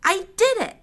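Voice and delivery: high-pitched, slightly restrained narrated shout; exultant shout. A narrator's reading. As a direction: call it out in triumph, pitched well up. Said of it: "Then I shouted".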